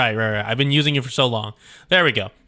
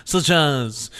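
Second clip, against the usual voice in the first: put-on lightly done French accent throughout; a polite but menacing French overseer. Latour warning Catherine about her grandson in a light French accent. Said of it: "the French is, French accents".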